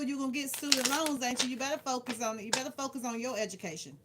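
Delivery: normal talking voice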